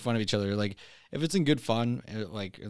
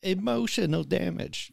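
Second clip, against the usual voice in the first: high, slow mock Asian accent; 8 semitones higher, slower than usual. Friend chiming in on the accent story, Asian accent. Quoting an accent catchphrase amid accent talk.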